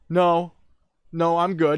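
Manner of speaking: high, loud refusal. Retold or imitated. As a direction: call it over a blaring TV.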